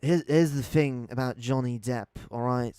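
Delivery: half-hearted film-star impression; rough attempt at an actor impression; Johnny Depp. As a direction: try the actor's voice, then give it up. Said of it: "that's a good Johnny Depp".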